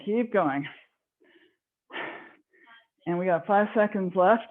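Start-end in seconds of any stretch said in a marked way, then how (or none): 3.1-4.4 breathing hard after exercise; winded, talking between breaths. Real, not acted. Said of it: "And I sure am breathing".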